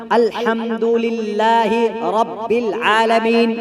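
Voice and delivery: slow recitation with a clear throat ह in अल्हम्दुलिल्लाहि; slow correct recitation. Shown as a demonstration. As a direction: draw out each letter carefully. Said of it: "अब इसी में देख लीजिए".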